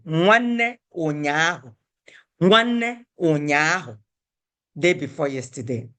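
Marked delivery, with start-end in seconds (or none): 0.0-4.0 slow model phrase. Shown as a demonstration.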